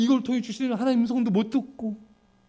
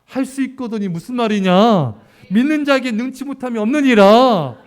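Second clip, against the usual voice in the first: firm, louder rebuke; rebuking Jesus; 6 dB louder than usual. Retold or imitated. Jesus rebuking the doubting parent, firm and louder. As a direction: correct them with authority. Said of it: "책망하셨죠".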